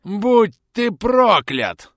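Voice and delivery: very slow, high screaming curse; screamed curse. Acted. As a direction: howl the curse at full force. Dying bandit screams his curse.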